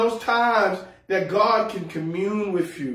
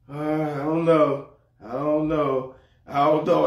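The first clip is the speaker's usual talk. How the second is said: slow, hesitant mock insecurity; wife's unsure mumble; 5 semitones lower than usual. Husband mimicking wife unsure of her looks, hesitant. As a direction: lightly mimic his wife doubting herself. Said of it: "she be sitting up there feeling like".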